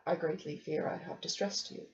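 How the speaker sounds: soft, low and gentle; gently. Acted. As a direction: say it gently, as if afraid to hurt her. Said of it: "So I said as gently as I could".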